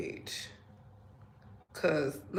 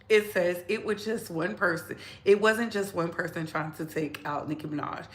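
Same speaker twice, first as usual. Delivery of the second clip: usual speaking voice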